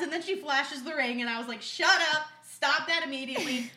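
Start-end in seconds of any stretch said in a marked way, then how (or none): 1.6-3.7 loud, disbelieving exclamation; retold shocked excitement. Best friend flashed a ring on FaceTime, loud shocked excitement. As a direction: burst out in thrilled disbelief.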